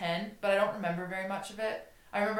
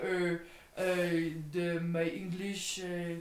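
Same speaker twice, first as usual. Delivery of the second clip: put-on halting, softer French-accented English; pretend French accent; 3 semitones lower, 7 dB quieter than usual. Skier feigning poor English after being stopped, pretend French accent. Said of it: "I'll just pretend I don't speak English".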